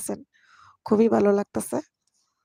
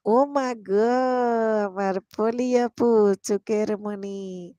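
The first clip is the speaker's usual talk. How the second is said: mock effusive; slower than usual. Effusive greeting to a viewer.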